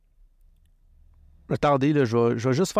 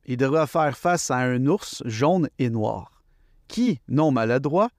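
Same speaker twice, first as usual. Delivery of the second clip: slow, deliberate poem recital; poem reading. Acted. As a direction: read the verse out slowly, phrase by phrase. Starts reading his poem aloud.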